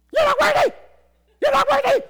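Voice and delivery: very high, loud parrot screech. Retold or imitated. Preacher mimics the friend's loud parrot, screeching. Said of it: "he had a parrot".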